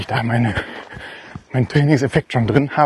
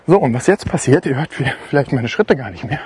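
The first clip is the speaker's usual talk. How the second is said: while running. Real, not acted. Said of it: "ich laufe gerade die Düne hoch".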